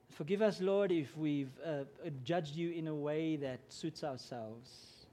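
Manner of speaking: earnest spoken prayer to God. Real, not acted. Pastor praying over the congregation, earnest prayer voice. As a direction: pray it from the heart. Opening prayer before sermon.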